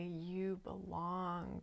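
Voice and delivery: calm. Retold or imitated. To the writhing goddess, calm and patient. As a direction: say it like calming a wild animal. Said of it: "I kept saying calmly".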